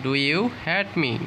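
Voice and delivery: very slow, falling on "hate"; slow falling model. Shown as a demonstration. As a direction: repeat "Do you hate me?" slowly, stressing "hate" and falling. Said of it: "তাহলে বলবো এইভাবে".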